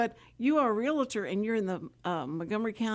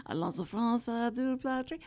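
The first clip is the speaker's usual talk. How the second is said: mock French; 3 semitones higher than usual. Shown as a demonstration. Host repeating her only French phrase, mock French accent. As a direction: fake French accent with a rise on du. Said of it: "all I remember is".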